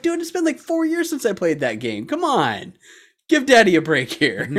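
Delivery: high pleading start, sliding down; exasperated dad. Retold or imitated. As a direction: whine it in mock exasperation. Exasperated reply to pestering son.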